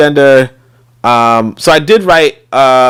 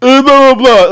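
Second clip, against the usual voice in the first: higher mocking husband voice; mocking whiny husband; 11 semitones higher, 4 dB louder than usual. The meek husband complaining to his wife about the kids, mocked in a higher voice. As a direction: tattle like a helpless husband. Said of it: "And he's like".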